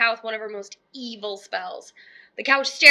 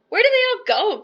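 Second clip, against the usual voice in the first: much higher, louder demand; shout; 10 semitones higher, 4 dB louder than usual. Acted. Witch yelling at a duck, demanding. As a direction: shout it across the farmyard. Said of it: "Gritch shouted to a duck".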